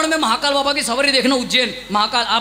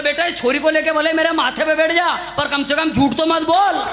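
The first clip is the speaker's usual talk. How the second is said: put-on old man's retort. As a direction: scold the young man for lying. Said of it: "क्या बोले".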